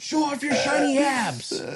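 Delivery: mock French flirt.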